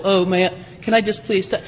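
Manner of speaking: understated gentle asking, no push; gentle request. Acted. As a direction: act out a timid, polite request. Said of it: "this isn't this gentle".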